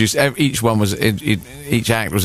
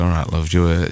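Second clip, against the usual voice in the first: Sheffield men; 3 semitones lower, faster than usual. Retold or imitated. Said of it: "working at the university would go".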